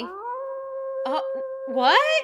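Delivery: shocked high-pitched squeal; startled. Real, not acted. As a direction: react to a sudden interruption. Sudden howl interrupts the scene.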